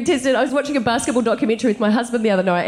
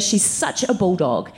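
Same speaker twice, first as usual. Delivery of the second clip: slow quote; 6 semitones lower, slower than usual. Retold or imitated. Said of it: "and she goes".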